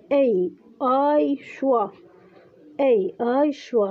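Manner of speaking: "أي آي شوا" named sound by sound; teacher listing the parts "أي آي شوا" in turn; sounding out symbols. Shown as a demonstration. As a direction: spell out "أي آي شوا" as three separate sounds. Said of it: "فنتج عنا".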